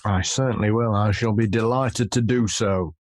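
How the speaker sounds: lightly hammy stage actor; a hint of grand stage delivery; theatrical voice. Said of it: "Very theatrical".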